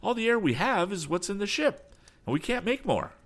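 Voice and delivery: high-pitched despair; distraught, high urgent voice. A narrator's reading. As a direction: deliver the bad news desperately. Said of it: "was the despairing answer".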